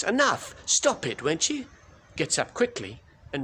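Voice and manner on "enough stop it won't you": high, loud shout to stop them. Retold or imitated. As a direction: shout it out, fed up. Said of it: "my sister shouts".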